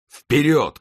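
high rallying shout; shouted command. A narrator's reading. Winter sends his squadron forward, high commanding shout. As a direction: shout the charge order, pitch leaping up. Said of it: "крикнул он".

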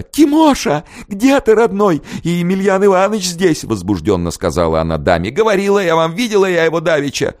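very high, loud, excited calls; excited yelling. A narrator's reading. Young woman calls for her sweetheart, high and excited. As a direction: call out eagerly for your beloved. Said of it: "тоже завопила".

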